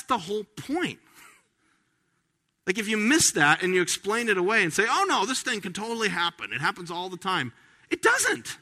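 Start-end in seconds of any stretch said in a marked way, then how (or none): 4.9-7.5 higher, quick, breezy know-it-all; lightly mimicked scoffer; mock dismissive skeptic. 7.9-8.6 an amused high-pitched "it doesn't"; laughing retort. Real, not acted. Laughing rebuttal of skeptics.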